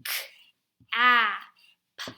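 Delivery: "k, a, p" as three separate sounds with pauses; sounding out. Shown as a demonstration. Teacher spells a word by sound, segmented. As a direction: isolate each letter sound, short A. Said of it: "going to do the word".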